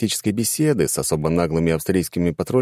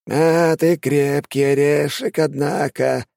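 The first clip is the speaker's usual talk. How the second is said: sneering villain; 9 semitones higher, slower than usual. A narrator's reading. Shaman sneers at prisoner.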